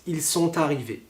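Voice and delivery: "ils sont arrivés" connected as "son-tarrivés"; repeated demo of the T liaison. Shown as a demonstration. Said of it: "on connecte".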